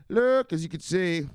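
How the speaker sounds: high, loud, slow showman call; slow booming host intro; drawn-out announcer. Acted. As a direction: stretch it like a ring announcer. Slow drawn-out segment opener.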